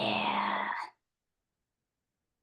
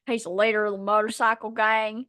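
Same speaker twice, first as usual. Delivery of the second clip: gruff biker voice; 2 semitones lower than usual. Retold or imitated. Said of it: "it has to be in that accent".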